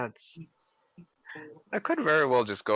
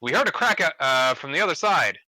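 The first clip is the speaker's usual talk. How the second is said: mimicking students; 4 semitones higher, 6 dB louder than usual.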